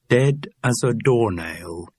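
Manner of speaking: slow, rhythmic list entry; measured headword in a recited list; catalogue rhythm. A narrator's reading. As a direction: read it off like a catalogue. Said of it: "You're getting a rhythm to the words".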